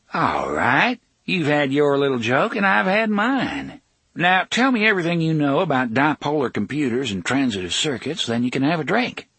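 smooth, grinning pressure; a slick host pushing for answers; the smiling villain demanding answers. Acted. Tick-Tock demands information.

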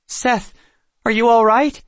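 high, loud worried question; alarmed concern. A narrator's reading. Girl checking on a dazed boy, alarmed concern. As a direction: call out anxiously to check on him.

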